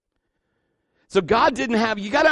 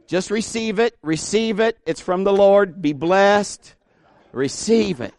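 higher-pitched, insistent blessing; pious urging; 4 semitones higher than usual. Acted. Friend urging pastor to accept car, mock-pious insistence. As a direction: press the gift on them in short, repeated bursts.

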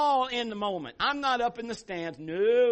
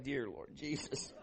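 embarrassed daughter; 6 semitones lower, 9 dB quieter than usual. Retold or imitated. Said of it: "Mal's probably like".

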